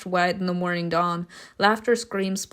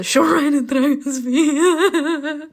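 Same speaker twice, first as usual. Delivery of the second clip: higher, breaking into real laughter mid-sentence; laughing while reading; 7 semitones higher, 6 dB louder, much slower than usual. Real, not acted. Player cracks up at the wind story, laughing. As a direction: read on through the laughter.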